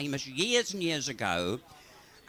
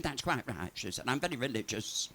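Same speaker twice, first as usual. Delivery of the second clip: put-on meek old lady; 3 semitones lower, 8 dB quieter than usual. Old lady answers sweetly.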